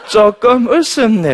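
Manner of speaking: high, slow, loud mimicry; grudging amused patient. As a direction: drag it out in a comic put-on voice. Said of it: "웃기면". (길게 끄는 높은 환자 흉내)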